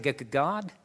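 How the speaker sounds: hushed, faltering, stammering plea; a trembling, quiet voice that barely gets the words out; shaky voice. Retold or imitated. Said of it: "in a shaky voice".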